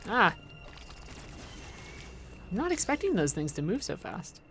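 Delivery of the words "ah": quick little "ah" of alarm; short exclamation, caught off guard; brief jolt of surprise; startled yelp. Real, not acted. Startled during game play.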